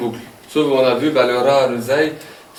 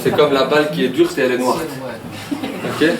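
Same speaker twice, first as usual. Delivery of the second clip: lightly put-on Walloon accent; accent wallon. Shown as a demonstration. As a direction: joke in a regional Walloon accent. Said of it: "dans, en Wallonie". (léger accent wallon pour plaisanter)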